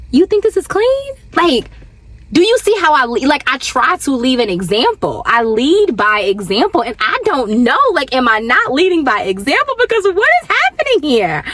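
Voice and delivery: high-pitched, incredulous parent; baffled mom venting, voice lifted high; frustrated disbelief. Retold or imitated. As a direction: question them in exasperated disbelief, pitch climbing. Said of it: "then I just get frustrated".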